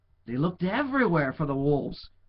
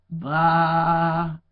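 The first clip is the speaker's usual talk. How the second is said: louder mock sheep baa; sheep bleat; 9 dB louder than usual. Boy imitates sheep bleat.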